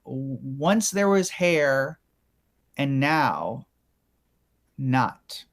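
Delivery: very slow, pausing line read; slow dramatic voiceover read; slow dramatic demo. Shown as a demonstration. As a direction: let each phrase hang. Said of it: "just say the line".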